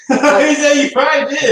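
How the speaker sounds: says it through a laugh; teasing him with a real laugh. Real, not acted. Friend teasing, laughing at story.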